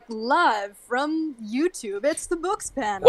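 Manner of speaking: slow show intro announcer; drawn out like a late night show open. Pretend. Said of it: "like a Saturday Night Live intro".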